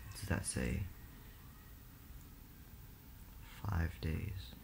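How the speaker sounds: very soft, low hushed voice; whispering while hiding. Real, not acted. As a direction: hush so nobody hears. Hiding, reading screen quietly.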